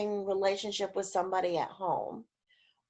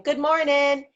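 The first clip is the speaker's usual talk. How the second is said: higher, sing-song good morning; chin-up higher voice; 5 semitones higher, 5 dB louder than usual. Shown as a demonstration. To Zoom listeners, showing the chin-up higher voice. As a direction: lift the chin and sing it out brighter. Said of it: "take your chin and move it up and say".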